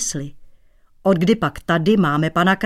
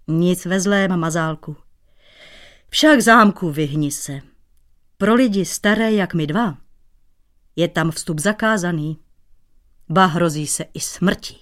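good-natured. Acted. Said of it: "řekl dobrácky".

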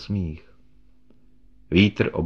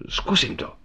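faint whisper; 14 semitones higher than usual. Acted. Dying friend fading on phone.

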